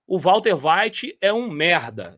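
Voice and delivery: slow, deliberate put-down; a plain, slow quoted insult; blunt mock statement. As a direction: spell out the insult plainly, unhurried. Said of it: "Ele não falou assim".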